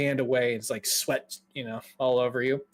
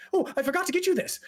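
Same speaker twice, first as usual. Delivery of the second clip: high, hurried scatterbrained mage; quick, fussy nervous voice; anxious fella; 14 semitones higher, faster than usual. Acted. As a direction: blurt it out, flustered. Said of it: "anxious fella kind of walks up to you".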